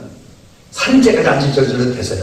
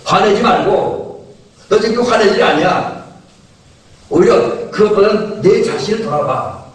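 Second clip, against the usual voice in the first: preacher voicing God's admonition, pitched higher; God admonishing Cain; 4 semitones higher than usual. God telling angry Cain to look at himself, admonishing. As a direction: urge self-examination in a higher preaching voice. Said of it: "그게 뭐냐면".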